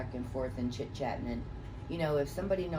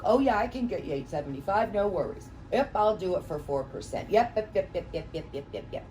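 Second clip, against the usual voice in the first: smooth-talking realtor; 3 semitones higher, 4 dB louder than usual. Retold or imitated. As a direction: rattle off easy promises, then trail away. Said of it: "We go in and we blow smoke".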